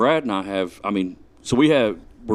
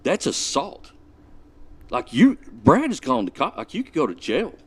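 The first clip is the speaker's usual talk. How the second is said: daddy mode; 5 semitones higher than usual. Retold or imitated. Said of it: "he turns into, like, daddy mode".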